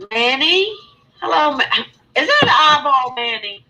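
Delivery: real surprised shout at a friend; surprised greeting. Real, not acted. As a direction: call out, amazed at the eyeball. Greeting caller on stream, surprised.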